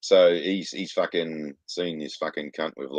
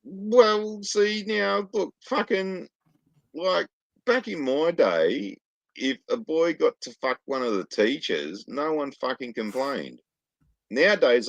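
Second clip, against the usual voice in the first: put-on much higher, slow cranky old-timer voice; 11 semitones higher, slower than usual. Mock old-timer lectures cohost on the good old days, high and slow. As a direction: grumble like a grandpa remembering better days. Back in my day rant.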